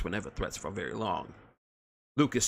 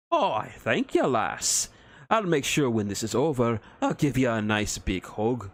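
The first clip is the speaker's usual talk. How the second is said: gruff Scottish-Irish dwarf; 3 dB louder than usual. Acted. Dwarf mocks the elf.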